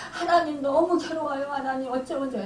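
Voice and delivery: mildly plaintive retold plea; anguished prayer. Preacher re-enacts her prayer to God when persecuted, mildly plaintive. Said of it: "너무 괴로웠어요".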